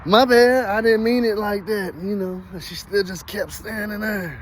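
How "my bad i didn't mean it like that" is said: flustered apology. Retold or imitated. Retold flustered apology to her.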